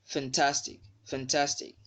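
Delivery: fantastic with TAS brought out; stress on TAS in fantastic. Shown as a demonstration. Teacher gives another example, stress on TAS in fantastic. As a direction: lean on the middle syllable of fantastic. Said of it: "the stress mark is also on the second syllable".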